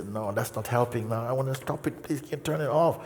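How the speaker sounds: mock frustrated plea. Frustrated student begging the teacher, mock pleading. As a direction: whine that it isn't working. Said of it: "people getting very frustrated".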